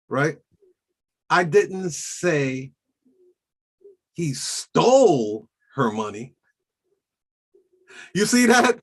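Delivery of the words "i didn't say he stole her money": slow, rising on "stole"; stress on stole. Shown as a demonstration. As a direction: lean into "stole" with a rise. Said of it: "say the sentence in many different ways".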